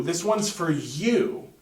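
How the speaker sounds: slow lead-up landing on a lengthened "you"; stress on you. Shown as a demonstration. Teacher correcting where the emphasis falls, weight on "you". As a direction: make "you" the point of the sentence. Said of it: "You is the point of emphasis for that sentence".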